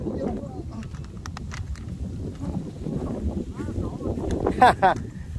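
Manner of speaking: long, soft, breath-heavy laughing; delighted laugh. Real, not acted. Delighted with the snake's weight. (cười khoái chí kéo dài)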